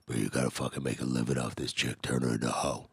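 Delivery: gruff pimp impression. Pimp friend urging him to profit, gruff. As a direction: lightly put on a rough street voice. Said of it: "real gruff voice, he talk like this".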